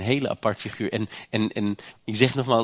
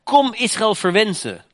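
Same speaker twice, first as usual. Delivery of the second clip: high, louder commanding king's call; king Balak's call; 13 semitones higher, 7 dB louder than usual. Retold or imitated. Balak summons Biljam to curse Israel, high and commanding. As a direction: summon the prophet like a demanding king. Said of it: "riep Moabs koning mij".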